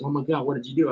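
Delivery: lightly hammed-up gasp of disbelief; mock freaking out. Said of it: "she was freaking out".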